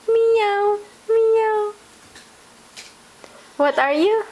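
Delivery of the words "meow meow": cat meow. Shown as a demonstration.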